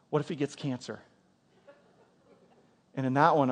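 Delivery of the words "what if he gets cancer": soft, much quieter worried question; wife's hushed worry. Retold or imitated. Wife tearfully asking husband at night, hushed worry. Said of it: "she starts crying".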